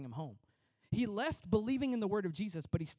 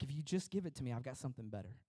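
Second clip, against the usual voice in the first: gentle Jesus voice; 6 semitones lower, 6 dB quieter, faster than usual. Retold or imitated. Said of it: "And he's like".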